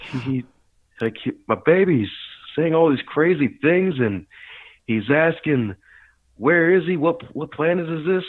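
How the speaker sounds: a worried mother relaying alarm; worried mom voice. Retold or imitated. Mom retells father's confusion.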